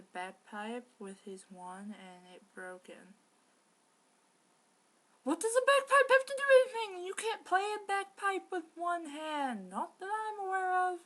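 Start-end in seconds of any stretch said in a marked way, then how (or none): 5.2-11.0 high, loud, fast ranting disbelief; loud, fast, exasperated protest; incredulous outburst. Real, not acted. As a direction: shout in baffled outrage at the plot. Exasperated at bagpipe absurdity.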